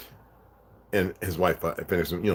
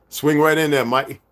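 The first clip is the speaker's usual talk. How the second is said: loud, higher mock-Aussie friend; imitated Australian accent; 8 semitones higher, 8 dB louder, slower than usual. Imitating Australian friend inviting him over, loud Aussie accent. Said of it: "He still has his accent".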